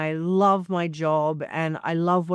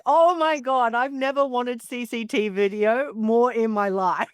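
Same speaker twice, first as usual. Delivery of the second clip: retold excitement; 6 semitones higher than usual. Guest reacting to Liz's rage story, high excited gush. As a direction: gasp out how badly you wish you'd seen it.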